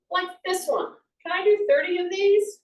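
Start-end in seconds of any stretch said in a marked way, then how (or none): 1.2-2.6 higher and louder self-check; a higher, louder challenge to yourself; asking yourself. Retold or imitated. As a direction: put the question to yourself out loud. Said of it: "you say".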